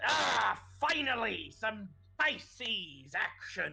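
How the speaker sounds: slow, high-pitched creature voice. Voicing Bluebeard as the player summons and mounts him: Bluebeard the wyvern's voice. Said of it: "and he says".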